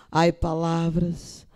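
very slow recited lament; poem recital. Acted. Reciting Cecília Meireles's poem to the audience, slow lament. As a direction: sigh out the verse slowly. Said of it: "reciting Cecília Meireles poem".

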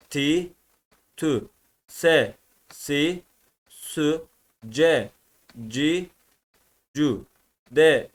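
thin Arabic syllables be-bi-bü, te-ti-tü, one by one; ince okunuş. Shown as a demonstration. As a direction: read each letter lightly with front vowels e, i, ü. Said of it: "Arkadaşlar bu ince okunur". (ince harfleri tek tek, ince ünlülerle okuyarak)

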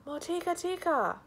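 second loud, high ogre shout; repeated ogre call. Acted. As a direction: call the name again, still booming. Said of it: "came striding along, crying".

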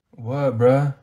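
low, offhand "What, bruh?"; lazy backtalk. Acted. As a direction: toss it off like a bored student. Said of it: "I'm not your bruh".

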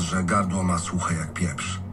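usual speaking voice

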